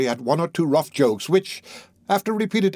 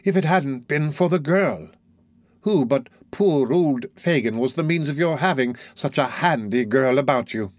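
wheedling Fagin; 2 semitones higher than usual. Acted. Fagin seizes the word.

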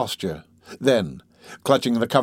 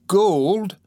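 higher-pitched astonished question; eager echo; 8 semitones higher, 3 dB louder than usual. Acted. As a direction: echo the word greedily, pitch rising. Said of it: "bending eagerly over the woman".

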